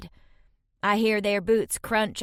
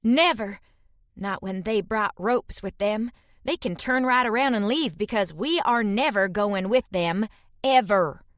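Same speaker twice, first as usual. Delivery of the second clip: defiant. Acted. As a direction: refuse them with force. Defiant refusal.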